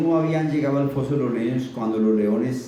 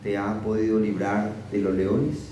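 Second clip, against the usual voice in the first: lower, mournful calling out; sad voice; 4 semitones lower than usual. Acted. King calling to Daniel at the den, sad voice. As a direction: call his name as if he's already lost. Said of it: "con voz triste".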